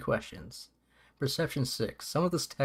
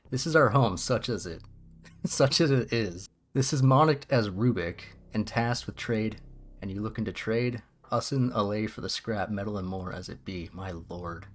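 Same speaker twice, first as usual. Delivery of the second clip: put-on muddled rural and inner-city accent; inner-city-meets-sticks accent. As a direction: voice a mixed-up backwoods European accent. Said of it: "this is like, if the inner city was also".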